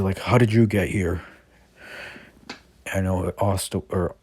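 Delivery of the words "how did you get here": a touch of surprise on the question; lightly acted surprised question; mildly surprised. Thief to Asta, who caught up to him, mildly surprised. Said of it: "the guy would be surprised".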